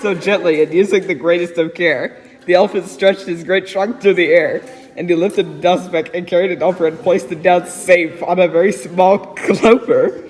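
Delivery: put-on reading a rhyming story aloud to a child. A narrator's reading. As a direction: read it like a bedtime book. Reads Seuss story aloud.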